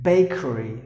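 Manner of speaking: BAKERY said carefully as BAY-kuh-ree; teacher modelling BAKERY with a long ay; model pronunciation. Shown as a demonstration. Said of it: "how you have to pronounce the word".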